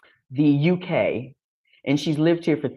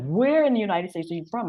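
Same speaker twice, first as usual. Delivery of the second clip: higher-pitched eager question; tickled curiosity; 7 semitones higher than usual. Retold or imitated. English lady quizzing an American, tickled curiosity. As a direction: imitate someone delighted and curious. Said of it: "beyond tickle with my American accent".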